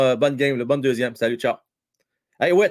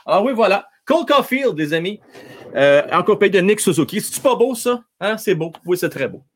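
proud showing off; 3 semitones higher, 6 dB louder than usual. Real, not acted. Shows off his jerseys on stream.

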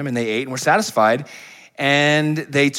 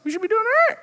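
smug inner thought; faster than usual. Retold or imitated. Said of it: "So you should be thinking".

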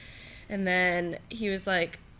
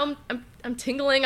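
repeating I'm nervously; stuttering; 5 semitones higher than usual. Retold or imitated. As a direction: stammer the start, dazed.

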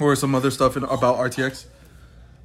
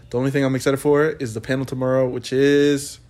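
monotone. Real, not acted. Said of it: "Sounds too monotone to be excited".

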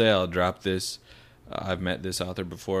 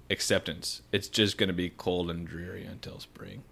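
measured reading, sinking softer at the close; reading aloud; 4 dB quieter than usual. A narrator's reading. Host finishes reading an article to co-hosts, reading aloud.

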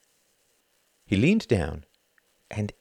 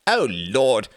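loud, higher jolly exclamation; merry cry; 5 semitones higher, 5 dB louder than usual. A narrator's reading. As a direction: cry out in mock dismay, merrily. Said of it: "cried Reginald merrily".

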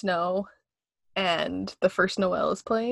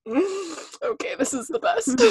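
2 high, laughing delight; 3 gush through a laugh; 8 semitones higher than usual. Retold or imitated. 4 quoting her reaction to the scene, high and laughing. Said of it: "I'm like".

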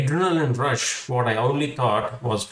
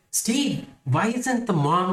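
higher-pitched retold disbelief; raised, incredulous questioning; baffled question; 7 semitones higher than usual. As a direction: ask your friend in mock bafflement. Retells baffled question to friend.

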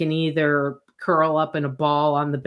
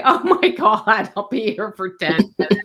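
exasperated inner groan; 4 semitones higher, 3 dB louder than usual. Retold or imitated. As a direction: act out despair at the printer. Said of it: "And I was like".

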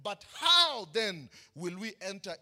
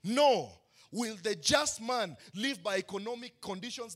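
louder rhetorical questions, each punched with a shouted "No."; preaching at full force; 4 dB louder than usual. Acted. Preacher rousing the congregation with rhetorical questions, at full force. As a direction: hammer each question home.

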